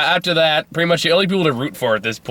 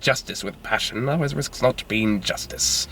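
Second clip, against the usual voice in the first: Hangman voice; 2 semitones higher, 3 dB quieter than usual. Pretend. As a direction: murmur it like a hangman. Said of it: "Hangman voice".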